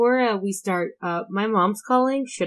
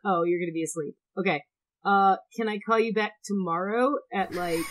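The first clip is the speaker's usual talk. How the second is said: dodging a caller. Real, not acted. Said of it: "you caught me at a really bad time".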